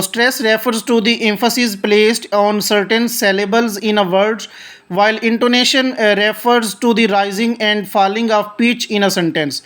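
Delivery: reads each English word slowly and deliberately; slow textbook reading. Shown as a demonstration. Teacher reading the definition aloud to students, slow and deliberate. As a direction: read it out like a careful textbook recitation.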